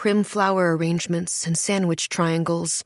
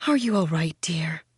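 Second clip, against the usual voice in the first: spiky sweet. Acted. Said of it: "Her voice is as spiky sweet".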